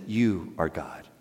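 pleading quietly from the cross; hushed plea. Retold or imitated. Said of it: "this thief on a cross that said".

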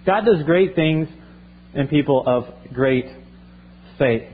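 "God does great things in people of great faith" spelled out slowly, with pauses before "people" and "faith"; slow dictation pace. Shown as a demonstration. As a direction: let them write it down word by word. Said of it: "just write this".

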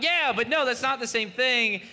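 high, loud mock-defensive protest; retold yelling. Father answering his son's accusation of screaming, mock yell. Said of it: "You're screaming".

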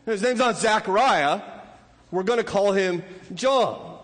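mother settling it, no discussion; emphatic. Retold or imitated. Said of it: "As someone emphatic".

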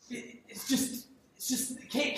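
breathless whispered disbelief, imitating the culture; mock whisper. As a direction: whisper it as if shocked. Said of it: "our culture says".

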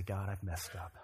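low, soft, penitent prayer; hushed, humble plea for rescue; simple confession. Shown as a demonstration. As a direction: admit it quietly to God, leaving long pauses. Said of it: "all we need to do is say".

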